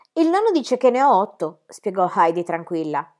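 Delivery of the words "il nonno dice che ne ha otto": put-on calm child. Child answers.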